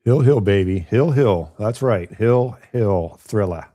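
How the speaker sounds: drawn-out announcer hype. Pretend. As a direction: call it like a fight intro.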